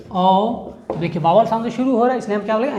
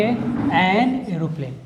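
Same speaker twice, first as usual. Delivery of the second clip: slow model answer; 3 semitones lower, 3 dB quieter, much slower than usual. Shown as a demonstration. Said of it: "तो हम क्या लगाएंगे?".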